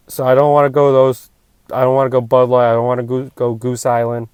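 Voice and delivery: muffled, speaking through a hand; hand over mouth. Real, not acted. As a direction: talk with your hand covering your mouth. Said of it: "I can't stop covering my mouth".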